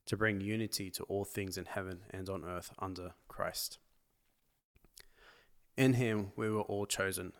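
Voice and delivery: measured, steady reading of scripture. Real, not acted. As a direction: read the passage aloud to the listeners. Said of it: "could you read for us in your beautiful Aussie accent".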